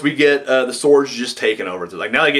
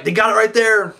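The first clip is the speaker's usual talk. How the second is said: high, eager "They got it right there."; excited call; 8 semitones higher than usual. Retold or imitated. Fan believing the match is won, excited. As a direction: call the finish like it's over.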